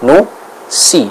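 nu si with a light, plain S; thin, un-emphatic S in nu si; thin wrong S. Shown as a demonstration. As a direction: show the mistake: "si" thin, like the letter sin. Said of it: "jadi bukan".

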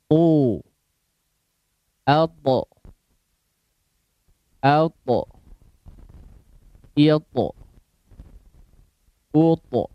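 each syllable a single loud drawn-out call; drilled letter sounds. Shown as a demonstration. Teacher leading a recitation drill, loud calls. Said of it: "Ujung lidahnya saja".

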